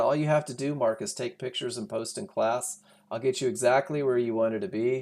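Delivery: ordinary talk, nothing marked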